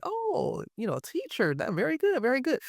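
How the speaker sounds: high, soft mock admiration; lifted quote of someone impressed; imitating impressed local. Mimicking locals impressed by teacher.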